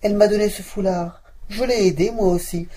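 a hint of a plucky maid; servant answering. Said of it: "la servante apparut".

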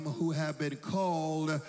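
slow, stretched words with weighty pauses; deliberate scripture recitation. Real, not acted. Preacher reciting a promise to the congregation, slow and deliberate. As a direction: land each word separately, drawing it out to the end.

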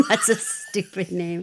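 slow, laughing repeat; amused, drawn-out echo with a laugh. Real, not acted. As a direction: savour it slowly through laughter. Amused repeat of the quoted line.

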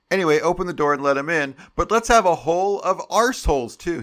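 mock British reading voice that builds; British accent. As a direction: play the British letter-writer, working up to a loud high finish on arseholes. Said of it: "I should read this in a British accent".

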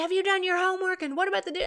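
nagging mother. Retold or imitated. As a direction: keep hounding him about homework. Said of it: "And she'd say".

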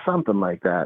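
noncommittal, slightly low reply; evasive answer. Retold or imitated. Inmate dodging the counselor's question, noncommittal. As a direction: toss it off as a vague admission. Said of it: "And he was like".

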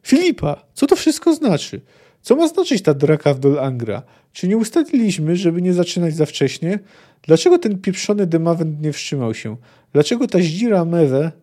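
a furious sorceress demanding answers; angry shouting. Acted. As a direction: hurl the questions at Filipa. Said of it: "wrzasnęła nagle Sabrina".

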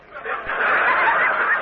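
short squealing laugh; high breathy laugh. Real, not acted. Laughing at punchline.

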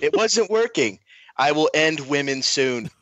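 lightly voiced Trump speech; a hint of Trump at a podium; mild mock presidential address; Trump impression. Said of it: "I'll give it a shot".

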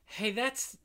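slow, shouted mock outrage. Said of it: "That's bad porn is what that is".

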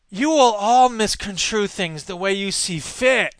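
slow, whiny politician impression; Scott Walker. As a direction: drag it out in a sniveling whine. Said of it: "I should do it like a whiny, sniveling guy".

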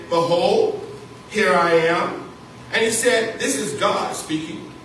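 solemn reading of Abraham's test; scripture reading. Acted. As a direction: read the verses out like a solemn Bible lesson. Reads Genesis scripture aloud.

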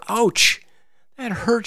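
high, loud little-hen squeal; squeaky ouch from a bonked chicken; hen's yelp of pain. Acted. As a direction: yelp it like a startled tiny hen. Hen hit by acorn yelps.

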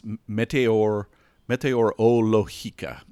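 slow, deliberate Spanish accent. Shown as a demonstration. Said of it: "I'm gonna do it in my Spanish accent".

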